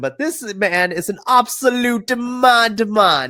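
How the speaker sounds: loud, high, bad put-on British accent. Describing a young wrestler as an absolute demon: bad put-on accent. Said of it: "excuse me for the bad accent".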